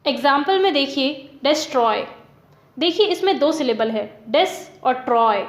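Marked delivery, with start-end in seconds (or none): 1.4-2.1 डिस्ट्रॉय with a light डिस and a stronger ट्रॉय; stress on second syllable. Shown as a demonstration. Teacher showing students syllable stress, डिस्ट्रॉय stressed on ट्रॉय. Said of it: "ट्रॉय को बोलने में ज़्यादा जोर लग रहा है". 4.3-5.4 डिस said lightly, ट्रॉय given more weight, slowly; stress on TROY. Shown as a demonstration. Teacher splitting destroy for students, weak डिस and stressed ट्रॉय. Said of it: "डिस को बोलने में कम जोर लग रहा है".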